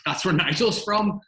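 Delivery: delighted laugh at the coincidence; laughing surprise. Retold or imitated. Director retelling the Nigel coincidence to the actor, laughing. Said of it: "And it's".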